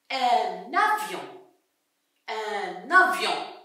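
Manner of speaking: slow, careful listening model; slow sounding-out. Shown as a demonstration. Teacher checks whether pupils hear F, slow sounding-out. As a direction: say each word unhurriedly.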